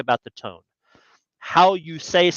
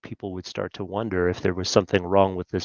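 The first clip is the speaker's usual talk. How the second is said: dropped way down, lower and softer; much quieter; 6 semitones lower, 5 dB quieter than usual. Shown as a demonstration. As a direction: sink the volume so they wonder. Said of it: "if I was to speak a lot slower".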